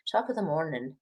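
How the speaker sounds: lightly put-on Irish lilt; attempted Irish accent. Shown as a demonstration. Showing how the Irish say it, playful attempted Irish accent. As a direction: try a stock Irish greeting accent. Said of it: "they kinda whistle and they, and they say".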